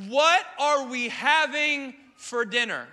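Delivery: drawn out, hungry and hopeful; eager question. Retold or imitated. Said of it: "I'm so excited".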